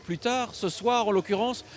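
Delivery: measured TV presenter narration; scripted show intro. Acted. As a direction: set up the show like a storyteller. Host reads scripted show intro.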